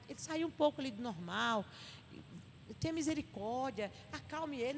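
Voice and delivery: ordinary talk, nothing marked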